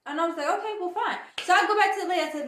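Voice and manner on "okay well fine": huffy give-up. Retold or imitated. Driver refuses to take them.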